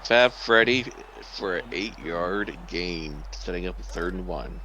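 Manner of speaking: upbeat sports commentator voice; play-by-play. Acted. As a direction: call the play like broadcast TV.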